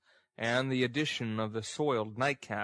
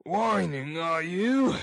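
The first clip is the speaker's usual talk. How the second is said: loud, higher-pitched jeer; brutish, scornful scolding; scornful bully; 6 semitones higher, 5 dB louder, slower than usual. Acted. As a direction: throw it out as an angry ruffian's taunt. Narrator voices Sikes scolding Nancy.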